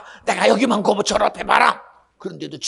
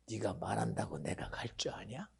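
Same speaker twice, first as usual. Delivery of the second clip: defiant hushed taunt; sneering whisper; 10 semitones lower, 22 dB quieter than usual. Acted. Pharaoh defying Moses, in a whisper. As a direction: breathe the refusal like a secret.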